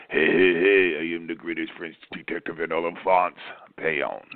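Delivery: mock French accent, grandly announced; lightly hammed French detective accent. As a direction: introduce yourself as the greatest French sleuth. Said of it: "Ellen Johnson with Brian".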